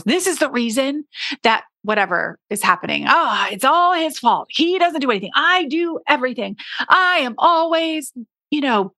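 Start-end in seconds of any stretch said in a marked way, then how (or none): 3.1-8.9 higher, mock whiny complaint about him; wife griping about her husband, mock frustrated; frustrated complaining. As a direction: vent like a fed-up wife, half-hammed. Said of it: "so frustrated with him".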